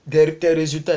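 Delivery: burping mid-sentence; words broken by a burp. Real, not acted. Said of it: "excusez-moi, j'ai roté".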